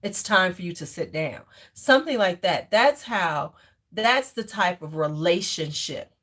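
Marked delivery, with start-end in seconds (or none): 0.0-1.4 firm command. Shown as a demonstration. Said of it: "You would say".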